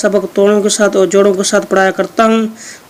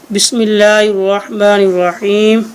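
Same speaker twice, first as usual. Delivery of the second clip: recited basmala. Shown as a demonstration. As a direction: intone it as a reverent opening. Formal recitation opening lesson.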